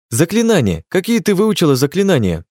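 high, frantic yell while running. A narrator's reading. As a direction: shout the question urgently. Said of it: "орал я".

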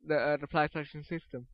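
words through a yawn. Real, not acted. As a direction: yawn while you speak. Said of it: "yawning on a podcast".

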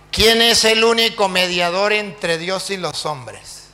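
slow, deliberate question; measured, declaimed public challenge; challenging pastor. Acted. Pastor quizzes the priest before everyone, slow and challenging.

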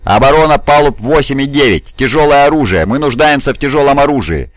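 high, pressing call for support; urgent yell. A narrator's reading. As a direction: shout into the comms under attack. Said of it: "вопил он, активируя связь". (срочный призыв высоким криком)

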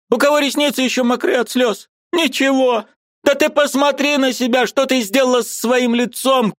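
put-on high, pleading old woman's voice; an aunt who can't bear it any longer; distressed old aunt. A narrator's reading. Aunt Marfa pleading with her pale niece, high and anguished.

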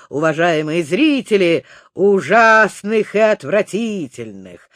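a hint of a showman presenting monsters; lightly voiced ringmaster; booming circus ringmaster. Professor presents monsters to audience.

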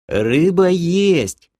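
high, very drawn-out happy squeal; light up with glee, stretching the words high; beaming creature. A narrator's reading. Creature delighted that fish exists, beaming high voice. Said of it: "засиял Лохар".

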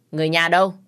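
calling out. Acted. Doctor calls out for family.

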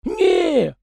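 high chatty peasant voice, pitched well up; folksy yard spirit. A narrator's reading. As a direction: play the fussy little yard spirit, talking nonstop. Tikhon objects.

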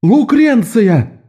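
высоко, медленно, зовя наверх; громко окликнуть внучку; гаркнуть. A narrator's reading. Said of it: "гаркнула". (бабушка зовёт внучку в окно)

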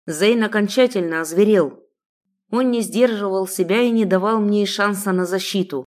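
ordinary delivery, nothing marked

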